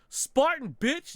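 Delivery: high gamer battle cry; triumphant yell. Retold or imitated. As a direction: yell it like a victory shout. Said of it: "I just yelled".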